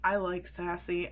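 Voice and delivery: lightly mimicked creep, a bit low; creepy deadpan. Friends teasing her whenever she's sassy, mildly creepy deadpan. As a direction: tease with a mild dead-faced creepiness. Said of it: "with a dead face and a creepy tone".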